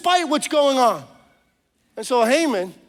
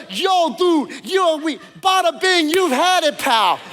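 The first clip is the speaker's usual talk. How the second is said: Calabrese tough guy; 4 semitones higher than usual. Acted. The king threatening Haman like a Calabrese mobster, mock Italian American accent. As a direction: play up a New York Italian wiseguy. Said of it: "the Calabrese was coming out".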